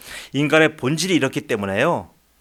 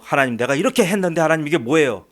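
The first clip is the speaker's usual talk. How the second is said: mock protest to God; 4 semitones higher than usual. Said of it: "따지고 대들어요".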